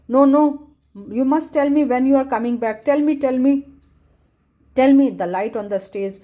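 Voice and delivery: put-on a boy pestering the alien not to leave; pleading boy. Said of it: "वो पूरा हल्ला कर रहा है".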